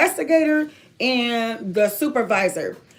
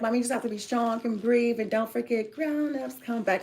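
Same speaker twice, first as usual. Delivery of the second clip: quoting daughter's little song; 4 dB quieter than usual. Retold or imitated. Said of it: "It's a little song she made for me".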